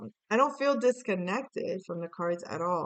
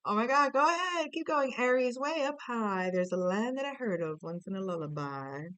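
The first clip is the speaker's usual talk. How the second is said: sarcastic; 2 semitones higher than usual. Acted. Mocking Aries for dreaming on, sarcastic. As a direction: egg them on with a touch of sarcasm. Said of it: "I felt a little sarcasm there".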